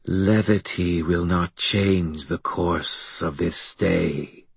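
slow, twisting alien voice; a hint of a buzzing creature; buzzing monster voice. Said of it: "Its buzzing, twisting voice".

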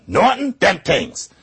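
a slow Ralph Cramden in Brooklynese; Brooklyn accent. Retold or imitated. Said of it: "Ralph Cramden on The Honeymooners might say".

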